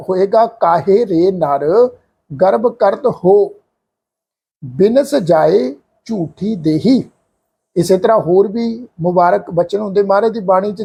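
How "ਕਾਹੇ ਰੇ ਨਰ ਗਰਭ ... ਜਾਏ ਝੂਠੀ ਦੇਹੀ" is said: very slow, ਹੋ said lightly and short; correct slow recitation. Shown as a demonstration. Teacher showing the sangat the correct reading. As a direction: recite slowly, barely touching ਹੋ. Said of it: "ਜਾਣੀ ਕਿ ਪਾਠ ਉਚਾਰਨ ਹੋਏਗਾ".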